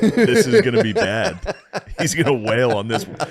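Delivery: amused mock worry; laughing dread. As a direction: chuckle at the coming beating. Voicing the crowd, laughing.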